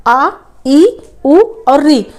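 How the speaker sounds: आ, ई, उ, री said short and crisp; short vowels sounded out. Shown as a demonstration. Teacher demonstrating the short vowels to the class. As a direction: clip each short vowel cleanly. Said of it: "अब आप इसको बोल के देखिए".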